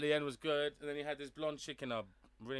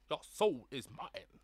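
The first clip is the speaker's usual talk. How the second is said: put-on Cambodian accent; much slower than usual. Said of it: "He sounded really like ... Cambodian".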